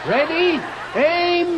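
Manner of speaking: high, loud firing squad call; loud military countdown; shouted command. Acted. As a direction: bark out ready and aim.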